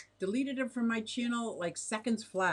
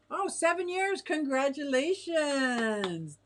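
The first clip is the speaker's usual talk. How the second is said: high, drawn-out cheer; excited congratulations; 6 semitones higher, 5 dB louder, slower than usual. Real, not acted. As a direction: celebrate loudly, stretching out the word. Congratulating a viewer on seven years.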